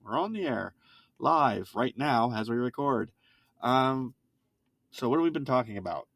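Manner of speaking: upbeat radio announcer welcome; a hint of an on-air host. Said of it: "I sound like a radio person".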